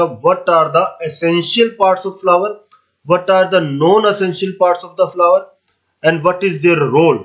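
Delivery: slow, spaced dictation of an exam question; dictating a question. Shown as a demonstration. Teacher dictating the exam question slowly to students. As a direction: read each word out slowly for notes.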